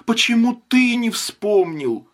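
high, rising, accusing cries; near-hysterical, blaming him. A narrator's reading. Wife hysterically reproaches husband, her voice climbing high. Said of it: "истерически воскликнула".

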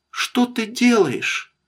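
put-on high, slow childlike question; sleepy child's high voice; little girl. A narrator's reading. Waking daughter asks her father at night, little girl's voice.

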